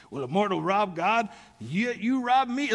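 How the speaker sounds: a hint of Rick's dramatic read, slowed on the second half; lightly voiced friend booming the verse; imitating Rick. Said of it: "I can't do Rick's voice".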